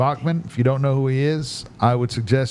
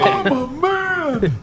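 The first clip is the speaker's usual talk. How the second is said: high squeaky voice; 13 semitones higher, much slower than usual. Pretend. Joking high put-on voices.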